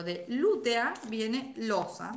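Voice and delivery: de lútea viene losa dictated word by word, slowly; slow dictation pace. Shown as a demonstration. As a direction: spell it out slowly for students to write. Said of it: "Se escribe así".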